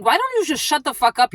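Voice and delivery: retold irritation. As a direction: act out snapping at a nuisance. Retells snapping at older woman.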